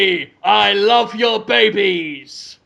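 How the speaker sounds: slow, lightly voiced TV detective; Kojak. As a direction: stretch out the catchphrase like a TV cop. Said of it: "That's Kojak".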